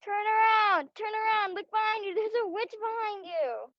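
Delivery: high, urgent warning calls to the stage; panto crowd callback. Acted. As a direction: shout up to the actors to turn. Audience shouting warnings at stage.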